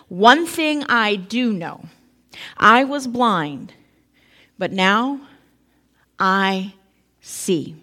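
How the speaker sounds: very slow, weighty, each phrase set apart; slow emphatic testimony. Retold or imitated. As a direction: savour every word like a revelation. Climactic testimony of the healed man.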